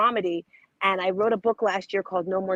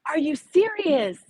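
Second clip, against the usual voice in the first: surprised; 7 semitones higher, 3 dB louder, slower than usual. Real, not acted. Hears it snowed since November.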